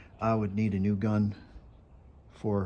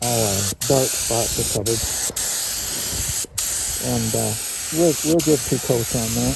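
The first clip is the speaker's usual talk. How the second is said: muffled, echoing inside a respirator mask; talking through a mask; 3 dB louder than usual. Real, not acted. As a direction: speak through a paint mask. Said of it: "I got this mask on, it's kinda reverberating".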